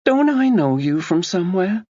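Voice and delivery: a self-absorbed woman brushing off a murder; breezy Tina voice. A narrator's reading. Narrator voicing Tina to Max, breezy and dismissive.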